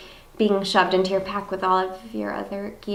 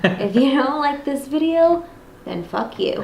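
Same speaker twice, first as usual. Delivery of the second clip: mock high voice; 3 semitones higher than usual. Tagline done in put-on voice.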